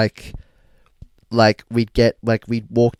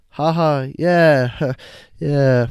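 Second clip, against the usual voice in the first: forced polite laugh and yeah; mock polite chuckle to a stranger; fake laughing; 3 semitones higher, 4 dB louder, much slower than usual. Lads fake-laughing at a chatty stranger, forced polite laugh. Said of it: "Had to put a bit of that fake laughing on".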